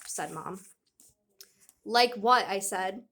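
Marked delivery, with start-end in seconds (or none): 1.8-2.5 louder, no mumbling; spoken up clearly. Acted. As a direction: speak up so the principal hears. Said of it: "trying not to mumble".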